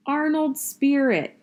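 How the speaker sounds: slow, high, loud roll-call yell; big teacher yelling a name. Acted. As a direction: bark the name out slowly. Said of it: "he yelled it".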